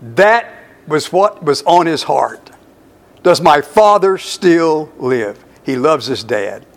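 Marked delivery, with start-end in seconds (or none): 3.2-5.4 slow heartfelt question. Acted. Repeats Joseph's heartfelt question.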